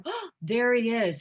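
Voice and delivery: drawn-out, admiring gasp; awed audience. Retold or imitated. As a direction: gasp and swoon slowly over the star. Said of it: "the audience may go".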